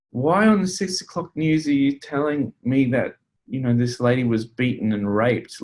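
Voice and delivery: mildly appalled complaint; mild indignant protest. Retold or imitated. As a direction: protest as if talking back to the newsreader. Acted protest at the evening news.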